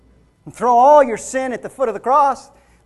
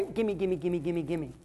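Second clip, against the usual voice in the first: soft, low, repetitive pleading; mock begging prayer; 6 semitones lower, 15 dB quieter than usual. Preacher imitating how we always pray to God, mock begging prayer. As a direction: mumble it quietly like a rote wish list. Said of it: "We always pray".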